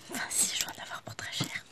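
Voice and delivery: quick whispered aside. Real, not acted. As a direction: whisper it to yourself, fast. Muttered aside to herself.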